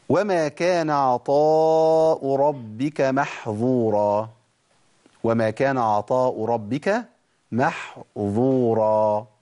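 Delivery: slow chanted recitation, محظورا with a clear ظ; chanted verse; Quran recitation. Shown as a demonstration. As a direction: recite slowly with tajweed. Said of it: "دي بالظاء".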